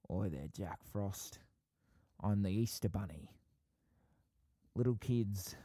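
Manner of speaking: put-on light Australian accent, Hugh Jackman's Easter Bunny style; a hint of an Aussie bunny greeting Jack Frost; mild Australian accent, imitating the movie rabbit. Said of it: "in the Rise of the Guardians movie, it's like".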